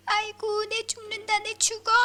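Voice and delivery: put-on very high, loud old woman's wail; wailing grandmother. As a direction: cry out as if dying. Grandmother wails after falling.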